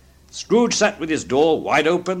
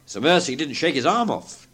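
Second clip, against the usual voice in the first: usual speaking voice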